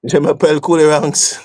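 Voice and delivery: a mock French accent, half-hearted. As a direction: toss off the line with a jokey French accent. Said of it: "I like the French accent".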